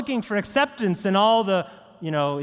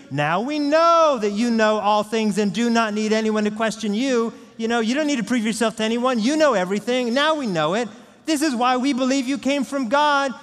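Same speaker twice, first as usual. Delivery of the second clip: higher, louder, eager voice; mock excited disciples; 6 semitones higher, 4 dB louder than usual. Preacher mocking the disciples, lightly excited. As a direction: play the overexcited know-it-alls. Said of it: "they get super excited".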